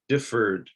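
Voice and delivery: "differed" in two syllables, light final D; "differed" with no extra syllable for ED; touch of final sound. Shown as a demonstration. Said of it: "just the touch of a sound".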